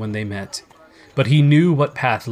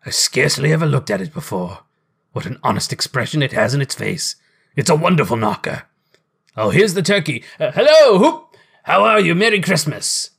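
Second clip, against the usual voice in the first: elated Scrooge; 3 semitones higher, 3 dB louder than usual. A narrator's reading. Scrooge greeting the turkey, gleefully exuberant. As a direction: build from fond admiration to joyful calling out.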